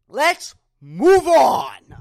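very loud, slow, drawn out; loud drawn-out groan. Real, not acted. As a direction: drag it out, exasperated.

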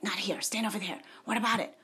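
hushed, low aside; softly acted private word; mock whisper. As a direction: keep it down, imitating a whisperer. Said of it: "Somebody's whispering to him".

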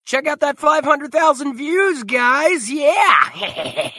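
high, loud mock hype shout; hyped announcer. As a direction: cheer like a hype man. Hyping friend's trailer views.

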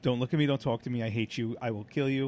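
rapid, low, quiet tirade; mimicked cold fury. Man mimicking his friend when wrestling gets criticised, quiet rapid hostility. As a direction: rattle off threats under your breath.

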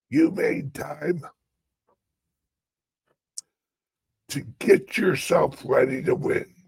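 hammed-up pulpit preaching; mock preaching. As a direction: preach it like a revival pastor, mostly half-joking. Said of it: "Start preaching".

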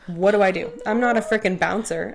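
mildly frantic, pitch rising as you plead; helpless protest. Retold or imitated. Bartender caught behind the bar during a row, helpless protest.

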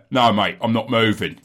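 put-on stubborn homeowner in a light British accent; one accent. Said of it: "in one accent".

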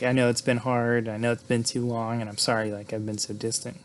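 retold soothing. Gina trying to calm Will down, mildly soothing. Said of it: "she's trying to calm him down".

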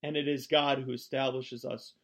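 earnest, emphatic Bible reading; scripture reading. Acted. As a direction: read it out like from the pulpit. Reads scripture aloud.

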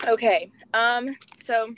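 between sips of water; talking just after a sip of water; drinking water. Real, not acted. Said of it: "sorry, I'm drinking water".

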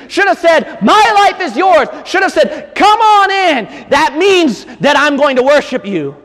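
high, loud preacher's cry; fervent pulpit shout; preaching at full force. Acted.

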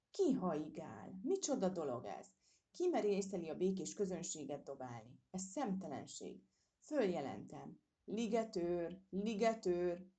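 an outraged fat lady shrieking for the park keeper; frightened indignant cries. Acted. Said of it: "rémülten sikoltozta".

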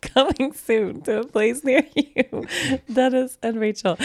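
slow, booming trailer announcer; movie trailer voice. Pretend.

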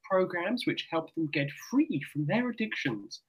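put-on RP accent. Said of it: "I'm in best R P voice I can".

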